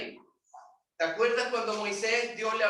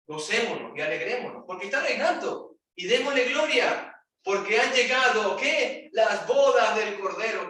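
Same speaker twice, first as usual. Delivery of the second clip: exultant rising preaching, louder toward the end; rising joyful call; 3 semitones higher, 4 dB louder than usual. Real, not acted. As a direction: build up to a jubilant shout. Rejoicing call to the congregation.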